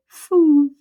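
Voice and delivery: loud high huff; dog skeleton. Acted. Dog skeleton huffs at being misassembled, loud. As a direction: blow it out like a dog.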